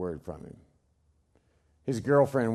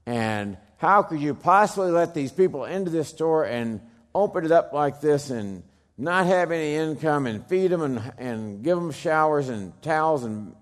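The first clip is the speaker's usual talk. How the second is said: incredulous; 5 semitones higher, 4 dB louder than usual. Retold or imitated. Reporters' incredulous question retold.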